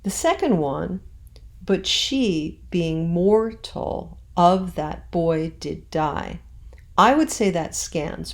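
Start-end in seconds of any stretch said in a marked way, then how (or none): 1.6-6.4 "being" squeezed into one syllable, slow; metrical reading. Shown as a demonstration. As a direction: fold "being" into a single beat. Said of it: "Being, I pronounced as one syllable".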